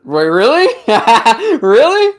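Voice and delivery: rising excited disbelief; high squeal of surprise; surprised. Real, not acted. Excited disbelief at album pick.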